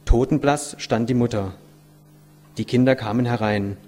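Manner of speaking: measured, dramatic storytelling; expressive read-aloud voice; story narration. A narrator's reading. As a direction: read the tale aloud with weight on key words.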